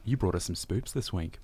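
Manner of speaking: soft spooky whisper into the mic. Pretend. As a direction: hush it like a secret. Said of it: "just whisper into the mic again".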